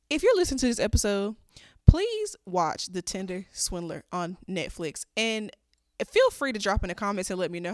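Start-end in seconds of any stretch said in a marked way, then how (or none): none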